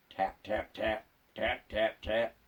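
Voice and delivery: quiet, low tapping sound in the dark; spooky hushed tap tap; soft tapping. Retold or imitated. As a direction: tap it out softly like a distant chisel. Knocking sounds in ghost joke.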